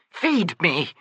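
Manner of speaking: put-on high, strained pleading voice of a frightened old woman; anguished elderly mother, pitched well above the narrator; Myby, desperate old woman. A narrator's reading. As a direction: beg to be watched over, voice cracking up high. Myby's pleading lament.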